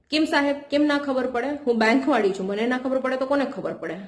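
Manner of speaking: mildly defensive retort; changed, defensive tone. Shown as a demonstration. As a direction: push back at the customer, a little offended. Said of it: "Again, તમારું tone change થયું". (ચિડાઈને સામો જવાબ)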